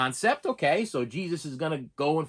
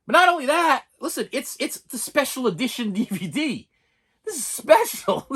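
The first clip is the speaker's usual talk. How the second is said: mock hype; 8 semitones higher, 3 dB louder than usual. Mock excited hype of DVD.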